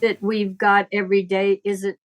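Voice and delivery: ordinary talk, nothing marked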